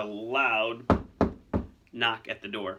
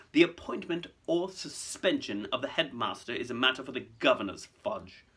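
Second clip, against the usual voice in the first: understated, silky correction; smooth. Acted. Malfoy correcting Fudge on governors' powers, smooth. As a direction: put him in his place smoothly. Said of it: "said Mister Malfoy smoothly".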